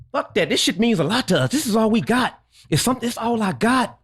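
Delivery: earnest, heated venting; impassioned serious rant. Real, not acted. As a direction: plead your case, voice riding high. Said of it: "My man's serious about this".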